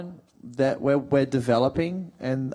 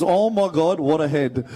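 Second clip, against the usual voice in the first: Punchbowl accent; 3 dB louder than usual. Shown as a demonstration. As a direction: quote the local saying in a Punchbowl accent. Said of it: "their expression is".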